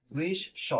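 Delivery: বৃষ স said with the স doubled, split into two beats; doubled s sound. Shown as a demonstration. Teacher showing the student how বৃষ স doubles the স. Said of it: "স এর দুইবার উচ্চারণ হলো".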